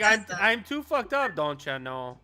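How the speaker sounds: put-on slow, drawn-out Minnesota accent; mock Minnesota accent. Teasing the drunk friend, in a slow Minnesota accent. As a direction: mimic him in a broad Minnesota accent.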